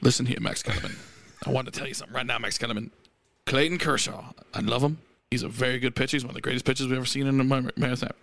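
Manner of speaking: lightly voiced angry sports pundit; Stephen A. impression. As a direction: lecture Max like a TV hothead. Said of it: "You gotta do Stephen A. getting mad".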